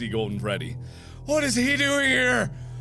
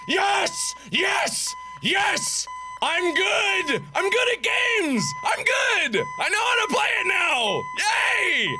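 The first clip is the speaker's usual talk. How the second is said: triumphant cheering; 7 semitones higher, slower than usual. Real, not acted. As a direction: cheer like you just won. Celebrating surviving the night.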